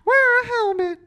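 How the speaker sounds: very high squeaky little mouse. Pretend. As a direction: chirp it out like a tiny mouse captain. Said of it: "I'll go next".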